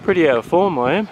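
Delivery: puffing from the uphill climb; winded, talking between breaths. Real, not acted. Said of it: "You can hear I'm out of breath".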